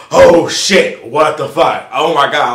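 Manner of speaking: loud, alarmed exclamations; retold freak-out. Client hearing his results are coming, loud retold panic. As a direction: blurt it out in mounting alarm. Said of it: "I freak the fuck out".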